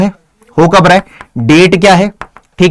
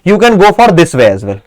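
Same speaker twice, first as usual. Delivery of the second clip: slow reading; much slower than usual. Shown as a demonstration. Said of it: "ये देखो ऐसे".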